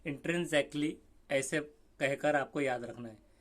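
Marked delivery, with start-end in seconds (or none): 0.1-0.9 "intrinsically" carefully modelled as in-tren-zek-lee; demonstrated pronunciation. Shown as a demonstration. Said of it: "जैसे exactly बोलते हैं तो उससे रिलेटेड".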